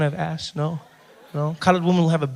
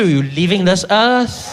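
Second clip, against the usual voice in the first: menacing wife; slower than usual. Acted. Colored woman answers the husband.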